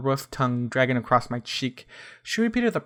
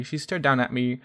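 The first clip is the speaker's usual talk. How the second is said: ordinary delivery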